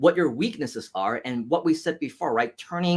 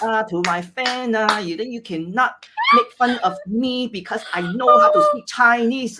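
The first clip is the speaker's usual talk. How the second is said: high, fast, put-on Hong Kong accent; mock his teenage Hong Kong accent, pitched up; exaggerated Hong Kong English accent, high and loud; imitating old accent; 7 semitones higher, 6 dB louder than usual. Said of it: "then I would still talk like that today".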